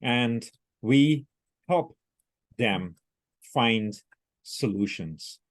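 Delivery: slow, word-by-word robotic reading. Retold or imitated. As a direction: read each word separately, like a machine. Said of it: "like a robot".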